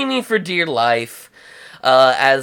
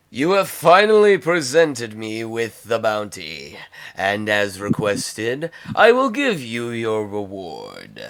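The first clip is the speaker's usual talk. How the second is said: Jabba the Hutt; 3 semitones lower than usual. Acted. Game master voicing Jabba's reply.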